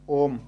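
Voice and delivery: ओम with the ओ held long and slow; lengthened o. Shown as a demonstration. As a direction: stretch the ओ in ओम like a pluta vowel. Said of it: "ओ को ज़्यादा लंबा करते हैं". (ओम में ओ को लंबा खींचना)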